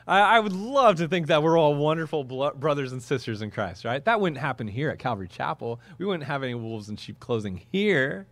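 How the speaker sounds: mock innocence. Ironic claim about their own church.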